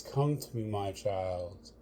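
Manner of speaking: gentle call from across a lake; soft-sounding call, lifted then falling away; soft distant call. Acted. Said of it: "yell at you and sound soft".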